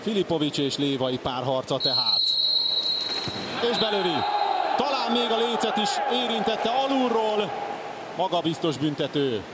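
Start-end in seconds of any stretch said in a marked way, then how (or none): 3.7-7.5 raised, shouted goal call; excited sports commentary. Real, not acted. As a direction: call the goal with a jump in pitch. Penalty shootout goal call.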